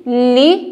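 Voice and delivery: LI isolated and clearly sounded; careful li. Shown as a demonstration. Teacher urging pupils to say li, clear demonstration. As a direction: sound out LI as a separate syllable. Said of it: "Procurem falar".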